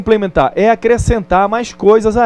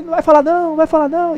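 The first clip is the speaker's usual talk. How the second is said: echo; 10 semitones higher, much faster than usual. Retold or imitated. The mountain echoes the boy's shout, fading. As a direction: echo it back from far away. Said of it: "Aí".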